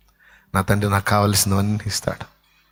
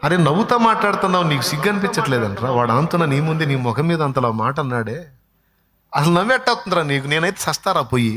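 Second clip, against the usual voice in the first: exasperated rebuke; 6 semitones higher than usual. Acted. Brother rebuking smiling servant.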